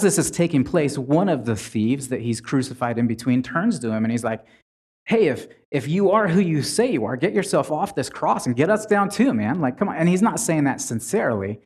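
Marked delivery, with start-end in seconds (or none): 5.0-9.9 lightly mocking, higher-pitched taunt; mocking thief. Thief on the cross taunts Jesus, mocking. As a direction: jeer casually, as if daring him. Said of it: "He's saying that mocking Jesus".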